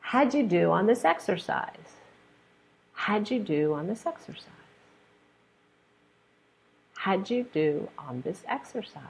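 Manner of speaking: "How'd you" joined with a j sound; dictation of reduced forms. Shown as a demonstration. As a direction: link "How'd you" smoothly. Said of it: "I'm going to say the sentence".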